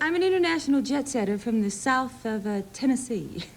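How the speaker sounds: mock international accent slipping toward Tennessee; put-on jet-setter accent. Actress jokes to host about her origins, mock-grand accent. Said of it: "What is that accent?".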